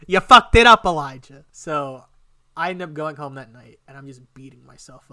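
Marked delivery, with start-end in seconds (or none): 0.1-1.4 even louder, higher angry yell at himself; furious self-yell. Retold or imitated. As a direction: blow up at yourself, voice rising. Berating himself in his head.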